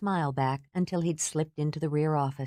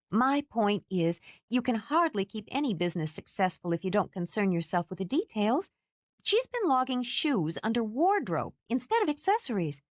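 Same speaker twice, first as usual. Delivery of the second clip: Kate lecturing; 6 semitones higher than usual. Acted. Kate's lecturing voice, high.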